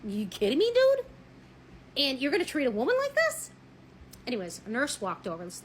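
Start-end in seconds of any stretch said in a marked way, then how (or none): 0.0-3.5 loud, high outraged cry on dude; a woman scolding a rude man, loudly outraged; outraged disbelief. Retold or imitated. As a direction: call him out, shocked and furious. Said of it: "And I'm like".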